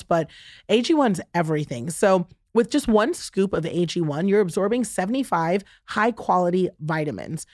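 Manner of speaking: upbeat sponsor read. Acted. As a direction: sell it like a host ad. Host reads a sponsor ad.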